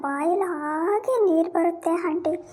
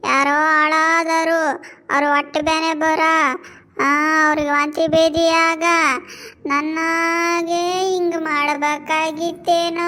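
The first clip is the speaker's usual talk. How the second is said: crying out for mother. Acted. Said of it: "ಯಾಕೆ ಅಷ್ಟು ಜೋರಾಗಿ ಕೂಗ್ತಿದ್ದೆ".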